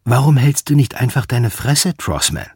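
deliberate provoking repeat; repeated challenge. Acted. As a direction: say it again, squaring up this time. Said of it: "Ich sagte".

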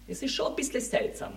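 drops to a soft, hushed whisper. Acted. Müller confiding his suspicion to his neighbour, whispered. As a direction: lets the neighbour in on a secret. Gossip about the lodger.

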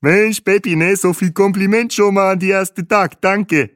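put-on high, cheerful guide with accented German; delighted tour guide. Bahe thanks Peppi for the compliment, high and jovial. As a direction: gush your thanks in a high voice. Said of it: "lachte Bahe".

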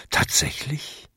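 gehauchtes, leises, freudig staunendes Tatsächlich; leise, staunend, ein Hauch von Freude; strahlend erfreut. Acted. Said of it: "gab Jakob strahlend zurück". (Jakob staunt dem Boten gegenüber, leise und erfreut)

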